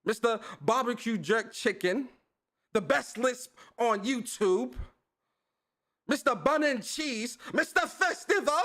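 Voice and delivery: put-on playful amateur Jamaican accent; terrible Jamaican accent. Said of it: "It's terrible".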